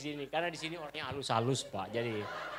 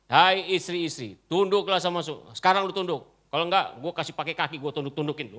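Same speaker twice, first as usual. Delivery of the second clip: mock domineering husband; 6 dB louder than usual. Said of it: "kata Alkitab".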